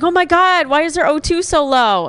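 mock panic. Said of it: "She's like".

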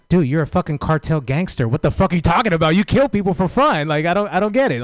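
high, exasperated comic rant; incredulous outburst. Retold or imitated. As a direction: call him out in rising disbelief. Outraged retort to cartel gangster.

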